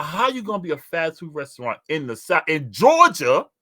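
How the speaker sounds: high, slow incredulous mock protest; retold outrage. Scolding Burger King staff, slow high outrage. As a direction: drag it out in disbelief. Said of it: "I said".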